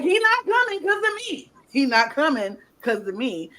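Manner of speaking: squeaky panicked Jey imitation, up high; high mock whine. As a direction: whine it like a guilty wreck. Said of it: "Jay's like".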